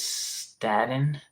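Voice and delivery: "Staten" said slowly without any r; misspelling read aloud. Shown as a demonstration. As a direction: draw out "Staten" as starting minus its r. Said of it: "misspell starting".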